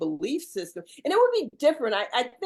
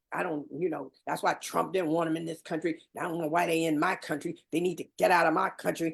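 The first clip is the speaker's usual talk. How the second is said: put-on mutter under breath, lower; 3 semitones lower than usual. Retelling what a nearby woman said: imitating someone mumbling under breath. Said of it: "under her breath, she was like".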